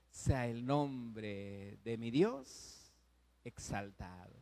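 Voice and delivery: very slow, low, softening to a hush; reverent surrender. Acted. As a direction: give it up to God slowly and gently. Job's humble reply in loss.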